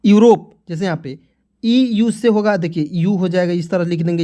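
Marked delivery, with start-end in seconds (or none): 0.1-0.5 यूरोप called out louder; emphatic answer. Shown as a demonstration. Teacher revealing the answer to the class, loud and emphatic. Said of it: "तो क्या हो जाएगा दोस्तों?".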